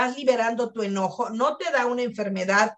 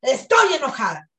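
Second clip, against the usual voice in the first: angry release; 4 dB louder than usual. Shown as a demonstration. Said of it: "Y abres bien aquí".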